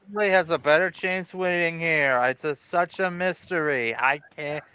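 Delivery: deadpan monotone, no melody at all. Acted. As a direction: drone it out like a bored robot. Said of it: "is this monotone voice annoying anybody?".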